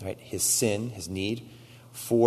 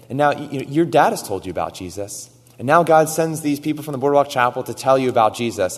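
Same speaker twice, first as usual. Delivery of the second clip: put-on raised, pressing voice to a young man; preacher pressing a boy to decide, raised and urgent; urgent plea; 4 semitones higher, 7 dB louder than usual. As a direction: plead with him loudly and urgently.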